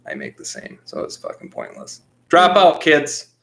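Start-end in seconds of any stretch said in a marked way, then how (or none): 2.3-3.3 mock rallying cry. Mock advice shouted to audience.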